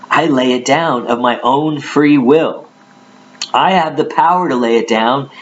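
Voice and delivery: measured, declamatory Bible reading; scripture reading. Acted. Preacher reads Jesus's words to listeners, declamatory scripture reading. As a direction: read the verse out with weight.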